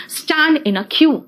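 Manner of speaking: slow teacher dictation; very slow model read. Shown as a demonstration. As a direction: stand in a queue said very slowly, word by word. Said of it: "slow model sentence".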